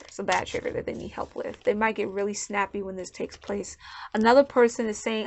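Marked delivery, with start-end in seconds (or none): 0.1-1.6 softer, whispered repetition of "bad trigger"; whispered repeat. Real, not acted. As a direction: drop to a whisper for emphasis.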